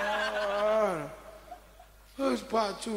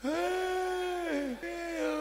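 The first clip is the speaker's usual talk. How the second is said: startled cry; 10 semitones higher than usual. Retold or imitated. Shocked at the baby.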